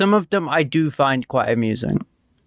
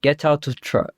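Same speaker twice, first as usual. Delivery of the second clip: half-hearted Russian guard impression; attempted Russian accent. Shown as a demonstration. Player rehearsing a guard's order, attempted Russian accent. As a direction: tentatively try a Russian accent. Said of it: "let's hear your Russian accent".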